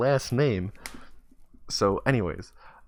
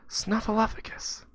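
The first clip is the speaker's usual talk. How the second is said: put-on louder kid word; 13 semitones higher, slower than usual. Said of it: "I didn't hear you".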